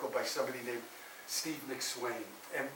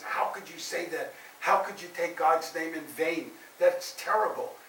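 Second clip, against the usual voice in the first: mild mock outrage, a little raised; angry teacher; 3 semitones higher, 3 dB louder than usual. Teacher rebukes boy for taking God's name, mildly angry. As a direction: scold in a storyteller's imitation of anger. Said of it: "gets very angry at him".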